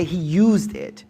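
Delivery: very slow, used driven home; stress on used. Shown as a demonstration. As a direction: spell it out slowly, hitting used. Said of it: "I'm gonna say that again".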